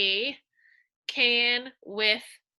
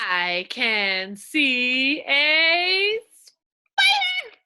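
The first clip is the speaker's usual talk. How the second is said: slow, drawn-out reading; slow reading aloud; 3 semitones higher, 6 dB louder, much slower than usual. Shown as a demonstration. Teacher modeling the sentence for young readers. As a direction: read it out word by word. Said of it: "I'm gonna reveal".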